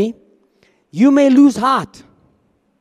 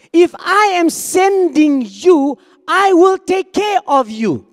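slow, higher, tender promise from God; a caring God, higher and slow; reassuring God voice; 7 semitones higher, slower than usual. Acted. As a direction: speak as God gently pledging care, slowly. God promising to take care.

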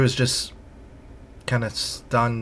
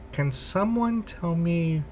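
slow, drawn-out question, trailing off softer; slow bewilderment; 2 semitones higher, 8 dB quieter, slower than usual. Acted. Crew member asking where they are, slow and bewildered. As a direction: spell it out slowly, softening to the end.

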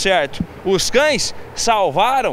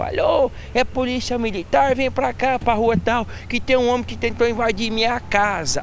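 higher imitated old lady phoning; Dona Maria/character; 4 semitones higher than usual. Owner phones police about intruder, higher old-lady voice. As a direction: make an emergency call as the homeowner. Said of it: "Aí Dona Maria ligou".

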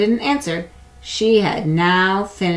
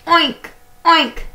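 very high, loud oinking; pig oink; 11 semitones higher, 8 dB louder than usual. Acted. The pig calls to the spider, high loud oinks. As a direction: squeal it like a piglet. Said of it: "grunted the pig".

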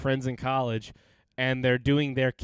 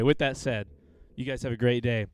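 ordinary talk

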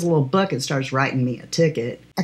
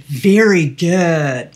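slow, drawn-out mock approval; condescending praise; 5 dB louder, much slower than usual. Cop mocking the driver as a dummy, slow and condescending. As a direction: praise her slowly like she's a child. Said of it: "like I'm a dummy".

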